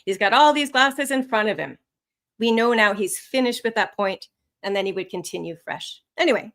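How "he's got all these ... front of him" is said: starts high on "all these glasses", falls at "in front of him"; falling intonation. Shown as a demonstration. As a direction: let the pitch drop through "in front of him" to close the point. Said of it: "Notice the falling intonation right at the end".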